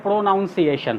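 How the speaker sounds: "प्रोनाउंसिएशन" with a full "pro-noun" at the start; common mispronunciation. Shown as a demonstration. Teacher quoting what some people say, mispronounced "प्रोनाउंसिएशन" with "noun". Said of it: "इसको भी कुछ लोग बोलते हैं".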